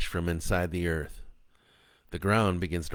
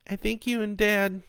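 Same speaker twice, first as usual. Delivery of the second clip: between sobs; 13 semitones higher than usual. A narrator's reading. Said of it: "Kat said between sobs".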